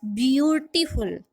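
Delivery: ब्यूटीफुल with the weight on ब्यू; stress on first syllable. Shown as a demonstration. Teacher giving a dactyl example, ब्यू stressed in ब्यूटीफुल. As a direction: lean on ब्यू, leave टीफुल unstressed. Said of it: "ब्यू पे हमने जो है वो stress दिया".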